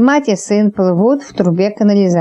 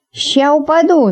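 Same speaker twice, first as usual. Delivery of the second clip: ringing voice; 6 semitones higher than usual. A narrator's reading. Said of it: "звонким голосом возвестила Магда".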